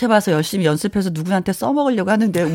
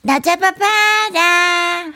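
slow, high coy "catch me"; sing-song lover teasing; 8 semitones higher, much slower than usual. Retold or imitated. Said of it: "칠삼칠칠 님이". (연인을 놀리듯 느리고 높게)

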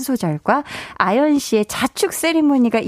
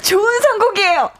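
playful fake-out; 12 semitones higher than usual. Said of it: "연기하지 마세요".

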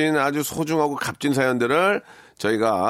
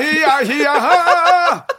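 high, loud cranky shout; grumpy old man yelling; 12 semitones higher, 7 dB louder, much slower than usual. Shown as a demonstration. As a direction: bellow like an angry grandpa. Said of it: "할아버지 목소리로".

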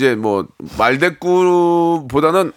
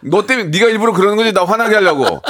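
raised mock accusation; comic angry dad; 5 semitones higher, 3 dB louder than usual. Dad accuses child of provoking him, mock anger. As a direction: blame the kid in hammed-up irritation. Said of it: "아빠 왜 맨날 화내면서 말해?".

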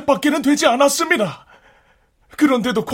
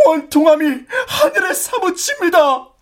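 crying; 4 semitones higher than usual. Acted. Peasant laments to the official.

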